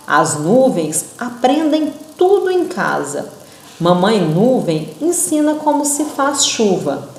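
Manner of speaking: put-on expressive read-aloud for children; poem reading. Shown as a demonstration. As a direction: read it like a storyteller to kids. Teacher reads poem aloud. (leitura expressiva de poema)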